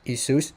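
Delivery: "Isus" as ee-SOOS; Greek pronunciation. Shown as a demonstration. Teacher rules it out, not like that, Greek pronunciation. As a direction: say "Isus" with s at middle and end. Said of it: "the way that it's pronounced in Greek".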